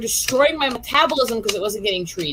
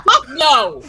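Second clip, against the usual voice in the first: louder, flat-out fuck no; emphatic refusal; 2 semitones higher, 4 dB louder than usual. Real, not acted. Friend refusing the creepy doctor, emphatic shout. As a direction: refuse with force.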